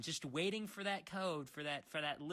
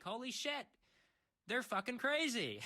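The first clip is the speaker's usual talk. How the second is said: much higher, mock-stunned exclamation; shocked disbelief; 8 semitones higher, 3 dB louder than usual. Eighteen-year-old reading Twitter, higher mock shock. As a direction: gasp it out like you just saw something insane. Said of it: "and you're like".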